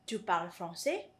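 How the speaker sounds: "Tu parles français" asked, rising on "français"; "Tu parles français" with a questioning rise at the end; question intonation. Shown as a demonstration. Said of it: "change the intonation in order to turn".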